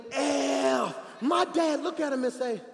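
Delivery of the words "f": high, loud hollered curse; imitated scream. Mike screaming as granddad gets out the car, loud holler. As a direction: scream it out like the son. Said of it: "So Mike screaming".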